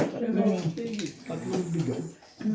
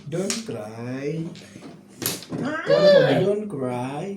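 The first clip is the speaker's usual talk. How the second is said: soothing; much slower than usual. Real, not acted. Telling a crying child not to cry, soothing.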